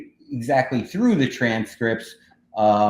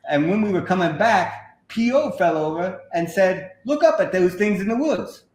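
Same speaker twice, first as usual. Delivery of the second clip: put-on English accent, pitched higher; an American hamming up an English accent; 6 semitones higher than usual. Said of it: "just do an English accent for the first sentence".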